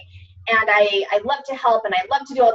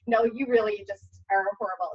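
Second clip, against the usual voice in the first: devil voice; 2 semitones lower, 6 dB quieter than usual. Retold or imitated. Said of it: "angel and devil on my shoulders".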